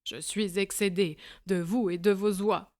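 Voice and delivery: fed up, yell it at him; furious shout. Acted. Breckenridge shouting at the little man, furious yell. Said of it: "criait-il".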